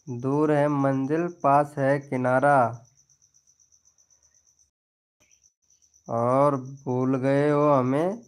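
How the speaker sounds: slow, drawn-out filmi dialogue delivery; filmy dialogue. Acted. Reciting a film dialogue to Jiya who forgot him, slow and dramatic. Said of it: "वो एक dialogue आता है".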